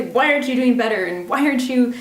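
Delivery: imitating a harsh inner critic; mock scolding. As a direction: berate the little child, quick and sharp. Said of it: "Could you say".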